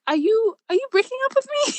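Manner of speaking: very high, tight question on the edge of tears; about to cry. Retold or imitated. Girlfriend asks boyfriend if it's over, near tears. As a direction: ask it high, voice near breaking. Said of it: "I, I'm about to cry".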